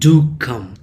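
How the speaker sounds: "Do" stressed, "come" falling after; short, insistent "Do come"; emphatic DO. Shown as a demonstration. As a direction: lean firmly on "Do". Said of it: "you are stressing that come".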